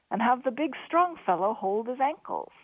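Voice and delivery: grinning. A narrator's reading. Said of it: "Crean grinned".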